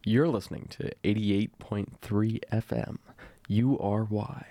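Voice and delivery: station ID in DJ voice; polished radio announcer read. Shown as a demonstration. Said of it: "It's really good radio voice".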